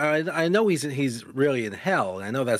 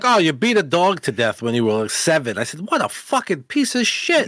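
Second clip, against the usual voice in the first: indignant outburst; 4 semitones higher, 4 dB louder than usual. Retold or imitated. Ranting at the character's crime.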